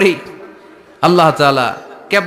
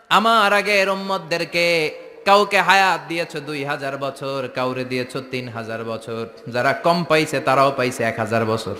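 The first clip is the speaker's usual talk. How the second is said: imitating a weeping supplication, hushed; retold tearful plea; 5 dB quieter than usual. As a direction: plead sadly to God, voice falling away. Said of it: "আবার কাঁদে, আর বলে, আল্লাহ".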